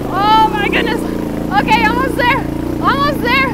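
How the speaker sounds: nervous excitement. Real, not acted. Struggling up the steep hill.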